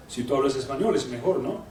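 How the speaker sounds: seductive Spanish. Acted. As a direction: slip into suave, deep Spanish. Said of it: "speak a foreign language".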